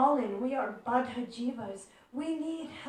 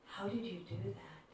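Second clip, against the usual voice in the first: awed question; 4 semitones lower, 11 dB quieter, faster than usual. Retold or imitated. Devotee asks in awe.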